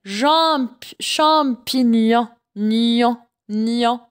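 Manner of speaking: "champignon" drawn out, then "nion" alone with a ny glide; slow syllables in "champignon", GN as ny. Shown as a demonstration. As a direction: sound out "champignon" slowly, repeating the final "nion". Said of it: "ça se prononce ni".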